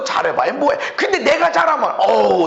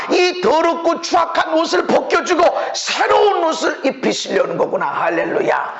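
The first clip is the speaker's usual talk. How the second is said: believer's voice. Retold or imitated. Voicing believer's realization.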